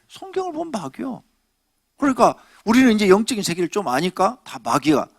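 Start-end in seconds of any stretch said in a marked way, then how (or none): 0.1-1.2 whispered aside. Acted. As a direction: lean in and whisper it. Pointed aside to congregation. (속삭이듯이)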